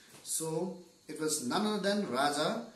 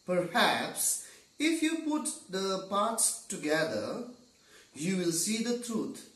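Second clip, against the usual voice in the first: slow, higher-pitched explaining; kindly guidance; 5 semitones higher, 3 dB louder, slower than usual. Acted. Raja guiding the six blind men, kindly guidance. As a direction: guide them patiently, spacing out each phrase. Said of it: "kindly he answered or he guided".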